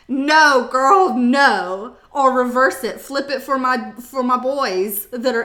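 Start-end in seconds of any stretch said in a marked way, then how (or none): 0.1-2.0 loud, firm no; loud scolding. Real, not acted. Vlogger loudly scolding viewers who text the guy. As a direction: shut it down hard.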